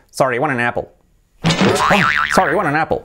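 run-together native English, "wanna napple"; casual native English with reduced sounds; native English accent. Shown as a demonstration. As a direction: imitate a native speaker, words linked in English. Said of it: "llega un nativo y de pronto te dice".

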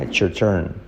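"It's your turn" with "It's your" fused; T joined to Y. Shown as a demonstration. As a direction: link "It's" straight into "your". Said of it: "la T se une con la Y".

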